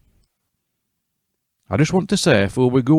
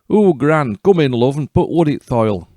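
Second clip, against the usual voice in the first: Wolf's high, louder fake-granny croak; 5 semitones higher, 4 dB louder than usual. Wolf invites Red Riding Hood inside in a croaky fake granny voice. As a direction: put on a false old granny croak to lure her in. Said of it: "croaked Wolf".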